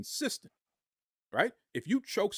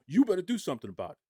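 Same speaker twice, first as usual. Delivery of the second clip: fast, louder, pushy retold demand; mock threatening demand; 3 semitones higher, 3 dB louder, faster than usual. Podcaster imitating Punk bullying the company president, fast and pushy. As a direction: rattle it off like a bully leaning on the boss. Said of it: "That's how he talks".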